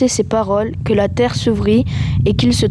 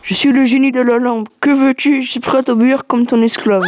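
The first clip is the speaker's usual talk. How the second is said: booming, higher shouting lamp genie; 3 semitones higher than usual. Acted. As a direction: announce yourself like a giant genie. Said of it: "un génie hideux et gigantesque".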